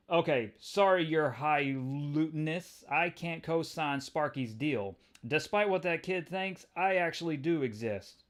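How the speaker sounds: Spider-Man calling out a betrayal; wisecracking hero. Acted. Peter voiced in comic read.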